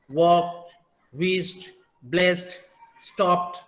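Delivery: वॉक्ड, whizzed, ब्लेस्ड, स्टॉप्ड each closing on "t"; one word at a time, वॉक्ड to स्टॉप्ड ending in t. Shown as a demonstration. Teacher modelling the list for learners, each word from वॉक्ड to स्टॉप्ड ending in t. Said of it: "हम सब में ... ट".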